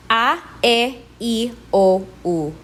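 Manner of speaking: A, E, I, O, U as steady ah, eh, ee, oh, oo; pure Spanish vowels. Shown as a demonstration. Teacher modelling the five vowels for learners, pure Spanish A, E, I, O, U. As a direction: hold each of A, E, I, O, U without gliding. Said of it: "do not move your lips or jaw".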